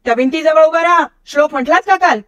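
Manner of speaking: father angrily orders his son to the wall; angry father. Acted. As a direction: scold the boy sharply, voice up high. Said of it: "रागाने म्हणाले".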